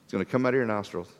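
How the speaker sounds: tossed off with a wink; wry divine reply. Retold or imitated. God answering complaints about meat, soft and fast. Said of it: "the Lord's response".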